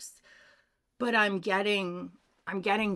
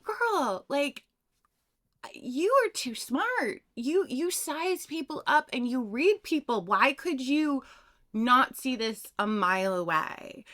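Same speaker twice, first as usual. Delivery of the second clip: higher, louder, lightly voiced grandfather, puzzled; a hint of an exasperated grandfather; mock disbelief from the grandfather; 5 semitones higher, 3 dB louder than usual.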